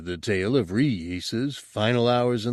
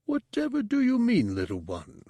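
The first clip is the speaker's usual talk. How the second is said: laughing response; 13 semitones higher than usual. Acted. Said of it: "came the laughing response".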